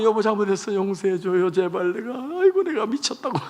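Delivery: kneeling plea with a wailing lift at the end; begging her husband on her knees; desperate pleading. Retold or imitated. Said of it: "무릎 꿇고 남편 무릎을 잡고". (무릎 꿇고 애원하는 목소리)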